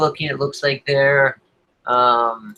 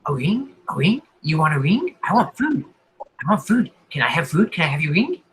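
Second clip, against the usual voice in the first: insane sporadic voice; 2 semitones higher than usual. Acted. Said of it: "a little insane, kind of sporadic".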